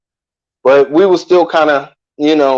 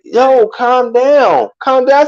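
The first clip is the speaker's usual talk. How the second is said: imitating cop; 6 semitones higher, slower than usual. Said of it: "the cop was like".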